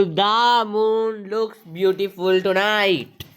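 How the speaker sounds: very slow, each word clear; slow dictation. Shown as a demonstration. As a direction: read the answer slowly to the class. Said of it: "उस the को हम यहाँ पे put कर देंगे". (धीरे-धीरे उत्तर पढ़ना)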